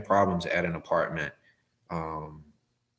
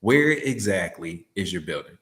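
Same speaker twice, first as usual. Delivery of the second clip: a pushy, rushed "where exactly is your building"; impatient emphasis; 3 dB louder than usual. Retold or imitated. Driver showing an impatient customer call the emphasis to avoid. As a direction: demand it like you're in a hurry. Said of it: "with that type of emphasis".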